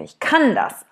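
bright, lifted declaration; confident. Shown as a demonstration. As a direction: say it like you mean it.

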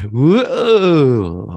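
laughing. Real, not acted. Mock awe at tiny applause.

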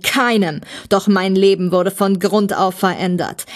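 emphatic villain's bitter tirade; aggrieved villain. Acted. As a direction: rant like a wronged arch-enemy. Voices the story's villain.

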